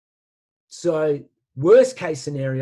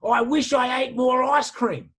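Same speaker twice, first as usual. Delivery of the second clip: put-on old man's wistful wish; 8 semitones higher than usual. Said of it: "He says".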